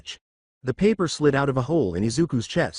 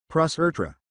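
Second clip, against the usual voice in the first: "Plus ultra" in a mock Japanese accent, R for L; 3 semitones higher than usual. A narrator's reading. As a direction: say "Plus ultra" with both L sounds as R. Switches to mangled English accent.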